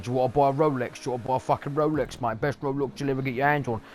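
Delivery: street Rolex seller. Retold or imitated. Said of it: "They're like the people that stand on the street like".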